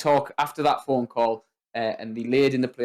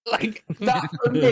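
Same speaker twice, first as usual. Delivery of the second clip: high, slow words through laughter; laughing; 10 semitones higher than usual. Real, not acted. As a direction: talk while still cracking up. Laughing at favourite movie line.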